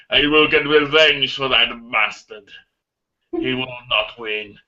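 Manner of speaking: slow, mock German accent on the vow. Villain swearing revenge for his brother, in a mock German accent. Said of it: "But in a German accent like this".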